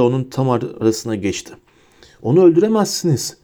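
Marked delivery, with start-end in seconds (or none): 2.2-3.4 rushed, out-of-breath plea; breathless. A narrator's reading. Harry, out of breath, begs them not to kill. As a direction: gasp it out urgently. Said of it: "dedi soluk soluğa".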